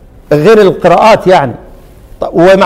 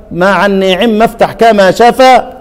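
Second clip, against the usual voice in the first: مع النعم افتح كما شفا chanted slowly once more, a touch slower; reciting the verse again; slower than usual. Shown as a demonstration. Teacher repeating the verse so students catch it, slow chant. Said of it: "هو قال إيه هناك".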